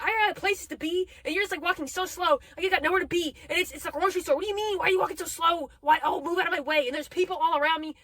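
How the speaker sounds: exasperated grocery store rant; irritated rant. Retold or imitated. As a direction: vent it like you're stuck behind someone. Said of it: "And I was like".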